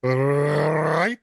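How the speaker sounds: put-on very slow, drawn-out German accent with a rolled R; mock-German announcer dragging out every word; terrible German accent. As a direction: say "will" as "vill" in hammy German. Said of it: "you put a V in instead of a W".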